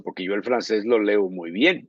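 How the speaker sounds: normal talking voice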